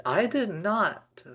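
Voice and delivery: put-on high, loud baby-sister outcry; shouted protest. A narrator's reading. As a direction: stretch it out in loud, indignant protest. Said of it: "shouted and protested the baby sister".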